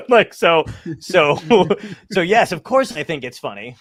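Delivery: laughing while talking; chuckling through words. Real, not acted. Laughing at own joke.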